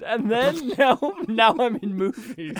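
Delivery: lightly voiced simple child with a laugh; a hint of an eager little kid; Ralph Wiggum. Host mocks actor's trivia, lightly childlike. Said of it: "He's like Ralph Wiggum".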